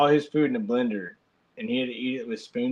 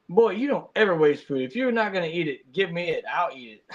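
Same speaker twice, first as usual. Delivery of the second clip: higher, stern lecture about wasting food; a grandfather laying down the law, pitched higher; imitating a stern dad; 4 semitones higher than usual. Dad scolding his grandson over wasted food, stern and higher.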